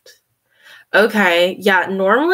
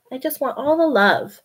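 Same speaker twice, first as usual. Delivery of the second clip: the same line a little higher and fuller; voicing the cat again; 5 semitones higher than usual. Speaking for her cat again, a little higher. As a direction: repeat the cat's wish more openly.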